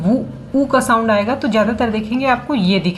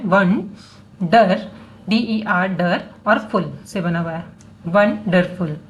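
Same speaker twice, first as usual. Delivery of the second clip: syllable by syllable; 2 semitones lower, slower than usual. Shown as a demonstration. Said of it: "syllable तोड़ा".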